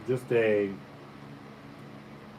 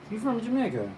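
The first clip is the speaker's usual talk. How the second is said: higher-pitched, innocently asked question; honest, non-aggressive question; 9 semitones higher, 3 dB quieter than usual. Retold or imitated. Friend asks a patois-speaking stranger where he's from, honest question. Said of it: "the most honest question ever, non-aggressive".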